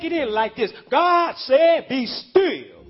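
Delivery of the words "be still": firm preacher's call of be still; commanding be still. Shown as a demonstration. Preacher voicing God's command, firm and ringing. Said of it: "Tell somebody".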